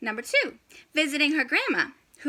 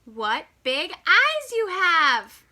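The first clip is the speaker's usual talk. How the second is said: put-on wondering girl; 4 semitones higher, 3 dB louder, slower than usual. Girl questions disguised wolf.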